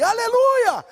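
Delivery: high, loud exclaimed aleluia; joyful aleluia. Retold or imitated. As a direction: burst out praising God.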